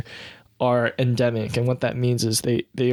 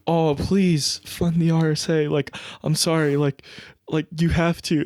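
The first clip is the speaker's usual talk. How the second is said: pleading voter; 4 semitones higher than usual. Retold or imitated. Citizen begging the prime minister, mock pleading. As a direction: beg the PM like a fan. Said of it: "going up to him being like".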